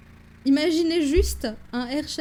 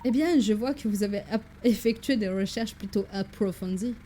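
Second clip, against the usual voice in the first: put-on French lightly coloured by an English accent; a courteous professor with a hint of English accent; 2 semitones lower than usual. Professor remarks on his assistant's research, light English accent. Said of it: "mon accent anglais qui vire vers l'allemand".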